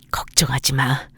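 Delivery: put-on gentle whisper to crying kids; whispered comfort. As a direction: whisper it to calm the children. Mother comforts crying children.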